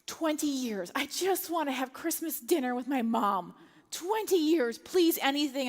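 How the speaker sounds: pleading, rising in pitch on the second appeal; desperate retold plea; begging. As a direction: plead with them as a last hope. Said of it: "I'm begging them".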